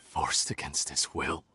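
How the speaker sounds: low, soft and mocking; scornful echo. Villain mocking the idea he was coerced, scornful. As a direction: throw their words back with contempt. Scoffing at the victim story.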